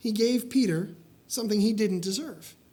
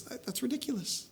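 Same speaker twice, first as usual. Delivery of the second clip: quiet scoff; 3 semitones higher, 9 dB quieter than usual. Retold or imitated. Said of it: "Just like we all would say".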